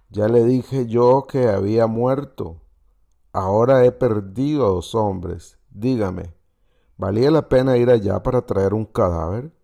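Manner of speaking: emphatic, angry dressing-down, acted in a storyteller's voice; furious officer. Officer rebuking the soldier who disobeyed his ban, angry. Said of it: "El oficial estaba furioso".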